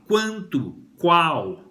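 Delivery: quanto, qual as separate model words; deliberate articulation. Shown as a demonstration. Teacher linking quanto, qual to four, deliberately articulated. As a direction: sound the QUA in quanto, qual. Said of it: "No número quatro".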